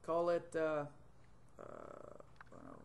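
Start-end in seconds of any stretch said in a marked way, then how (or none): 1.6-2.8 low, slow mumble to himself; muttered aside. Real, not acted. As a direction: drop it under your breath, unsure. Muttering while naming a file.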